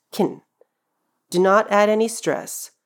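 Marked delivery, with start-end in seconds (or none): 0.1-0.4 can said as a quick 'kin'; fast reduced can. Shown as a demonstration. Teacher showing the modal verb shortened, can as fast 'kin'. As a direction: say can like 'kn', unstressed. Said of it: "Pronounce it like a fast kin".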